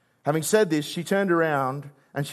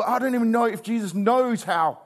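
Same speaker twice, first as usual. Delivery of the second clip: grief-stricken; 4 semitones higher than usual. Retold or imitated. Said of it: "so grief-stricken".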